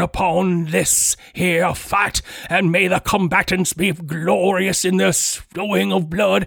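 southern preacher voice, fervent sermon-like delivery. The warden calling down fire on the arena fight, in Warden Beale preacher voice. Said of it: "speaks in a Southern Baptist style preacher voice".

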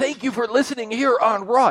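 very high, strained, pained voice. Mocking a wrestling commentator's delivery: strained Byron voice, as if in pain. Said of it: "it sounds like he's in pain trying to speak".

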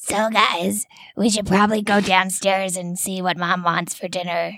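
put-on teen character voice. Speaking in character to the other players: Terry voice. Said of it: "That's your ex doing Terry voice".

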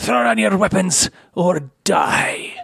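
harsh, rough, commanding dark elf voice. Game master voicing a drow ordering the standing party, drow character voice. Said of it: "The drow on the large salamander, the giant salamander, begins to back up and says, "Reinforcements will be here soon enough. / He says".

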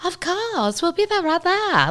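put-on very high, airy upper-crust Boston society accent. Retelling how they answered an invitation to the porch, airy Boston-y accent. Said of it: "They had that accent, too. They're very airy".

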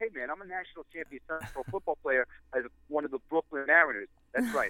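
Long Island-accented speech. Asked to bring back the Long Island accent he dropped, New York Long Island accent. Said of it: "You want me to talk like I'm from New York and Long Island?".

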